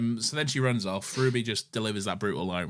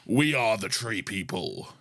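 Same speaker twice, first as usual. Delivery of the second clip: deep alien voice; slower than usual. Shown as a demonstration. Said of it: "am I doing deep".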